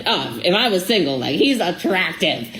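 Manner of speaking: lightly voiced silly, slow gushing tone; a hint of a goofy put-on voice, drawn out; silly Jesse Lee voice. Telling her boyfriend about a guy on live video, in a lightly silly voice. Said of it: "in my silly Jesse Lee voice".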